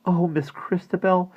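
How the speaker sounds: high, slow, overwhelmed exclamation; gasped. A narrator's reading. Maggie sees the dolls alive, high astonished gasp. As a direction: draw it out in astonishment. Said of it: "Maggie finally gasped".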